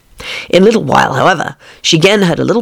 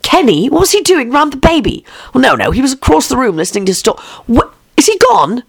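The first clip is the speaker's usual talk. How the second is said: alarmed wife; 8 semitones higher than usual. Acted.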